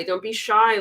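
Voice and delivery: usual speaking voice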